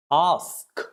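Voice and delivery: "Ask" with a long AH vowel; different A sound. Shown as a demonstration. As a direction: model Ask as "ahsk". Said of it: "Now this is different".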